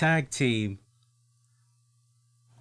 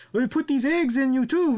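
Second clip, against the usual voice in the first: mock wrestler line; 11 semitones higher, 3 dB louder than usual. Continuing the mock quote.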